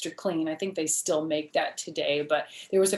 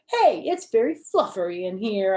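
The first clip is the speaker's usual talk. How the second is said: put-on loud, delighted little girl; child thrilled, covered in bubbles; real happy; 2 semitones higher, 8 dB louder than usual. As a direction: burst out with glee in the bubbles. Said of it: "real happy".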